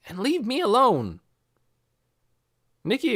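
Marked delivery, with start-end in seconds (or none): 0.1-1.2 higher, louder bossy big brother voice; big brother scolding. A narrator's reading. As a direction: send the kids inside, firm and loud. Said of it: "said the big boy".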